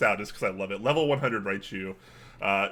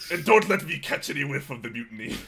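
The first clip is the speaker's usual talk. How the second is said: put-on pirate accent; 3 semitones higher than usual. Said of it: "start with some kind of pirate theme".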